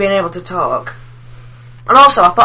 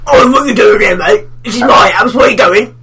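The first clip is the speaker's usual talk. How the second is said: rude spider; 3 semitones higher, 4 dB louder than usual. Retold or imitated. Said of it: "dick spider who's just like".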